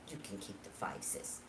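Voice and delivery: sweet. Retold or imitated. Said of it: "my sister's so sweet".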